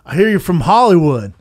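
lightly voiced pushy good ol' boy; mock Southern bar guy. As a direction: put on a loud Southern twang. Retold southern drunk bar challenger.

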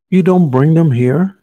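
loud, high astonished cry. Acted. Lion crying out in disbelief to Stork, loud and high. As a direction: blurt it out in disbelief. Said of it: "cried Lion".

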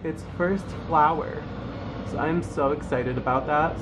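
talking over truck noise; over passing truck. Real, not acted. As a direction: speak over traffic outside. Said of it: "Sorry about the truck traffic".

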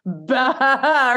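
long wavering goat "baah"; imitated goat call; goat bleat. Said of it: "And he goes".

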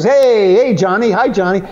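mock drunken cheer; drunk greeting. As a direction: hail him like rowdy drunks. Drunks greeting Carson loudly.

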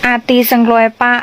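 says อาตีสังรวยปะ clearly in Lua; a teacher says อาตีสังรวยปะ, "I miss you", for viewers; Lua phrase. Shown as a demonstration. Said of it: "แปลว่าฉันคิดถึงเธอ".

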